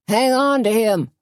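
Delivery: high urgent yell; yelled order. A narrator's reading. Doogie ordering Junior, high urgent yell. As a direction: yell it through the crowd. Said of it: "Doogie yelled".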